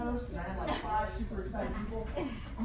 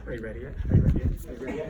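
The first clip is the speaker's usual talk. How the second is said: nagging; 9 semitones lower, 7 dB louder, much faster than usual. Retold or imitated. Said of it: "I'm gonna ask you twenty-five times a day".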